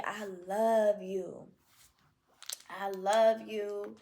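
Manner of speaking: slow, tender I love you to yourself; tender self-talk. Shown as a demonstration. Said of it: "And you just say".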